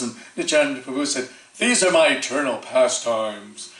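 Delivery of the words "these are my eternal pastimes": slow, plain, unbothered statement; matter-of-fact. Retold or imitated. Nityananda answering the curious mother, slow and matter-of-fact. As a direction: state it as simple fact, slowly. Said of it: "in that matter-of-factly".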